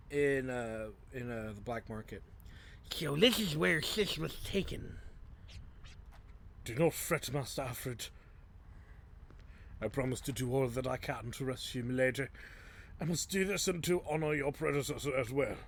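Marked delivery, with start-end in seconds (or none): 2.9-5.0 higher-pitched put-on character voice; game character voice. Game character finding where Sis was taken, higher put-on voice. 6.6-15.6 lightly voiced devoted servant; a hint of a formal, loyal retainer. Servant reassuring Master Alfred about rescuing Milady, lightly put-on character voice. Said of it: "I forgot his voice".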